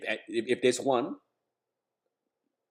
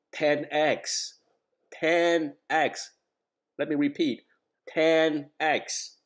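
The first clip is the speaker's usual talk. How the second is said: excited; 5 semitones higher, 3 dB louder, much slower than usual. Real, not acted. Emphatic repetition of gains.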